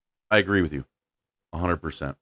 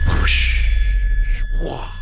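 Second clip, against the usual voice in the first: drawn-out hushed rushing whoosh; imitated whoosh. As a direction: make the noise of a big whoosh. Imitates a crash noise.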